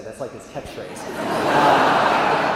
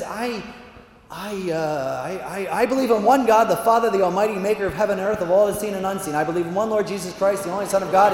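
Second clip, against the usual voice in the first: high stammer into a gabbled recitation; choking panic; 4 semitones higher, 4 dB louder than usual. Acted. Dominican with no answers left, panicked choke. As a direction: seize up, then rattle it off louder. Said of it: "he just kinda chokes".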